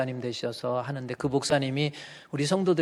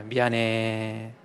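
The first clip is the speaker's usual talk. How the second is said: gentle sorry; 3 semitones lower, much slower than usual. Shown as a demonstration. Pastor showing husbands how to apologize gently. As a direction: say 미안해. gently, drawn out. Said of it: "미안해도 잘해야지".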